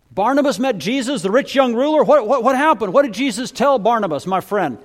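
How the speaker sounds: a villager all worked up over the story; excited gossip. Acted. Excited villager hears the news.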